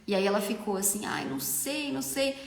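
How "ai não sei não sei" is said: hesitant bride, softer and a little higher. Retold or imitated. Bride unsure about her makeup trial, hesitant. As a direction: hedge it softly, unsure.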